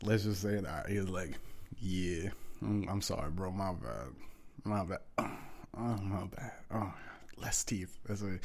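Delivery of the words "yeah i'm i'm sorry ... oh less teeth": softer, blissed-out mumbled apologies; relaxed. Retold or imitated. Gamer buddy distracted on the mic, relaxed. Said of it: "he was a lot more relaxed".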